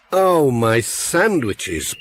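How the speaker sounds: slow, drawn-out moan over lost lunch; a mild dismayed moan, very slow. Acted. Pat finds his sandwiches gone, slow dismayed moan. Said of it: "Pat moaned".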